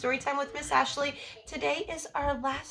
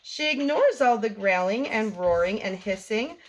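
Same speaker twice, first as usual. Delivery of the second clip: lively bedtime story read-aloud for little ones; reading to children. A narrator's reading. The speaker reading a bedtime story to kids, lively read-aloud. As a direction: read it like story time, bouncy and rhymed. Reads picture book to children.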